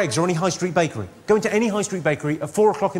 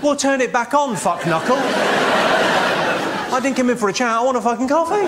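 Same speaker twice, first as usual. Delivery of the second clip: mock fury; 6 semitones higher, slower than usual. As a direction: tear into the barista who switched the machine off. Ranting at Starbucks staff.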